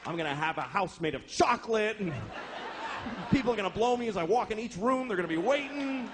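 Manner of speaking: lightly acted dreamer listing wild plans; gleeful daydreaming. Poor person fantasizing about being rich, gleeful daydreaming.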